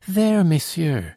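high, slow, anxious cry; deep anxiety. A narrator's reading. Girl turns anxiously to the patrol, high and slow. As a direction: plead with them, held by worry. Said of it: "she exclaimed in tones of deep anxiety".

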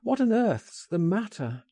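high-pitched, baffled demand; urgently asking what is wrong; concerned cry. A narrator's reading. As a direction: cry out in alarm. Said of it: "I cried".

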